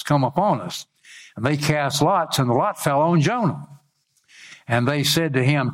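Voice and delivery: measured preacher's Bible reading; scripture reading. Acted. Preacher reads Jonah's story to congregation, declaimed lightly. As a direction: read the verse out deliberately, phrase by phrase.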